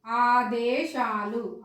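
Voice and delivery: ఆదేశాలు with long vowels and unaspirated దే; teacher's careful, slow ఆదేశాలు; clear pronunciation. Shown as a demonstration. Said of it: "స్పష్టంగా పలికితే".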